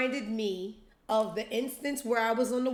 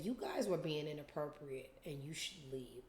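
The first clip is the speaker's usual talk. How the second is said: prim scolding; 5 semitones lower, 10 dB quieter than usual. Retold or imitated. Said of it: "jumps in and said".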